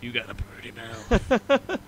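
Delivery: slow leering Southern drawl teasing a friend; Southern movie line. Pretend. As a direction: drag out purty mouth like a creepy hillbilly. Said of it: "Texan accent".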